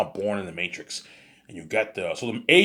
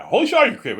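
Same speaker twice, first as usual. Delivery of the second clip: mock surprised outburst; 9 dB louder than usual. Excited outburst in story.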